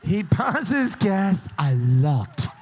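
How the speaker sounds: slow, drawn-out imitation of her Southern accent; slow Southern drawl, lightly imitated. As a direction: echo her Southern accent back, stretched out. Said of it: "she said it with a lovely Southern accent".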